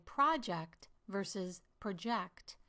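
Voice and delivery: "project" stressed first on one syllable, then on the other; contrasting syllable stress. Shown as a demonstration. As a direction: lengthen and lift a different syllable in each "project". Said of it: "Notice how I lengthen the all-caps syllables".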